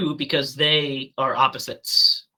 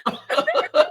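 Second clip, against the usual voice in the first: hiccups; 6 dB louder than usual. Real, not acted. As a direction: voice jumping up with hiccups. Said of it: "I just have the hiccups".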